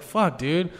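half-voiced "Fuck, dude"; mild frustrated curse. Gamer seeing the boss finally drop, mild annoyance. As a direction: grumble it like a tired gamer. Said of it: "I was like".

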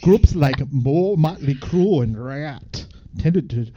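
Canadian reading aloud; Canadian accent. Acted. Reading about eighties metal as a Canadian, Canadian accent. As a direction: read it out in a folksy Canadian accent, with eh. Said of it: "read by a Canadian".

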